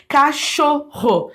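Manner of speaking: CACHORRO split slowly into ca-cho-rro; digraph demo. Shown as a demonstration. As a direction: say CACHORRO syllable by syllable. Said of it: "Eu tenho dois dígrafos aqui".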